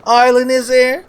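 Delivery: high, nasal-free sitcom dad squawk; Archie Bunker impression. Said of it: "my beloved Archie and Edith Bunker impressions".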